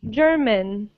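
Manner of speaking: "German" as GER-man; first-syllable stress. Shown as a demonstration. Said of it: "have the stress at the beginning".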